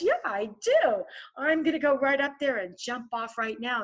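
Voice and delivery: hypnotized eager crowd. Retold or imitated. Crowd glamored by the vampire, eagerly agreeing. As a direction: gush like someone under a spell.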